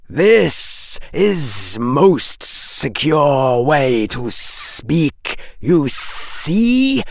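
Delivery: hissing snake. A narrator's reading. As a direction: lay it out slowly like a serpent.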